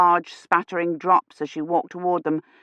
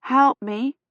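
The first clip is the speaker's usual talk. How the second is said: feverish plea; 6 semitones higher than usual. A narrator's reading. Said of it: "she said".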